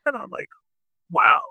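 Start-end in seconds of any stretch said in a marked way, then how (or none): 1.1-1.4 awed wow. Retold or imitated. Handed coke by a famous singer.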